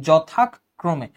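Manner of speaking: যথাক্রমে broken after "jo-thak", then "kro-me"; pausing at the conjunct. Shown as a demonstration. Teacher explaining conjunct pauses, যথাক্রমে split as jothak, krome. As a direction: stop on the k in যথাক্রমে. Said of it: "থামার আগের অংশটা বলতে হবে".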